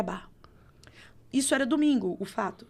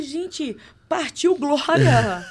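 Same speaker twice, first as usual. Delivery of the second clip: mock panic; 5 semitones higher, 8 dB louder, much slower than usual. Retelling panic before being hit.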